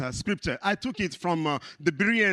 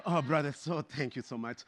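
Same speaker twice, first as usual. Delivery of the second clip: mock gushing thanks; 2 semitones lower, 6 dB quieter, faster than usual. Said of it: "they start thanking you as if".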